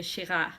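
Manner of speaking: Shiraz said as shi-RAH, silent z; pretentious pronunciation. Shown as a demonstration. Wine drinker admitting pretension, Shiraz as shi-RAH. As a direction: drop the z from Shiraz, French-style. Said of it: "So I go pretensions".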